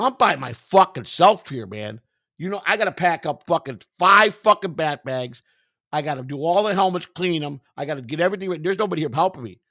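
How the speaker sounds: high, loud protest. Retold or imitated. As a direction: push back hard and defensively. Defending himself in the quarrel.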